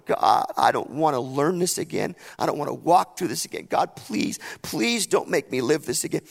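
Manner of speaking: retold crying prayer, voice giving out; tearful plea. Man praying alone in his bedroom, tearful pleading. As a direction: plead with God, mildly tearful. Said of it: "and I'm crying".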